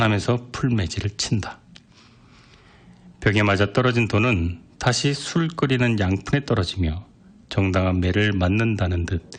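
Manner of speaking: ordinary delivery, nothing marked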